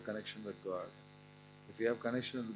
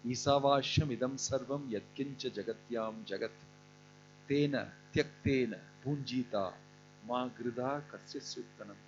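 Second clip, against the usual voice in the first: verse recitation. Acted.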